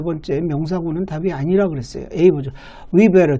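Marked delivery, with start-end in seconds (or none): 2.9-3.4 "We better" with the 'd of "we'd" left silent; dropped D. Shown as a demonstration. Teacher showing the silent D to students, "We better" without it. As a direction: say "We better" with no D after "we". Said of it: "듣자 발음 안 하죠".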